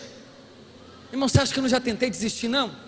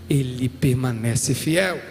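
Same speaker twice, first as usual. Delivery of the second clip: much lower, slow "Ele permanece fiel"; preacher's grave low climax on God's faithfulness; deep solemn declaration; 10 semitones lower, much slower than usual. Real, not acted. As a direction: drop the voice and land it like a truth.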